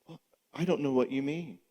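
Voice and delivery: a hint of a coy, evasive wife; woman voice. Passive aggressive partner denying the problem, lightly voiced woman. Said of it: "I don't wanna make it just woman voices".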